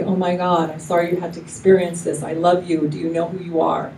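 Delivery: sincere, caring words to someone crying; compassionate comfort. Shown as a demonstration. Comforting a crying friend, compassionate and sincere. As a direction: hold them and say it with love. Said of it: "you see the difference?".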